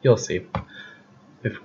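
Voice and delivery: a slightly hoarse, tired voice. Real, not acted. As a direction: voice going hoarse. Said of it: "I'm sort of losing my voice".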